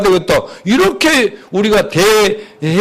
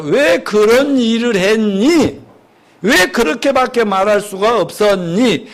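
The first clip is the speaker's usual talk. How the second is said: calm question. Shown as a demonstration. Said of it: "말에다가 해야지".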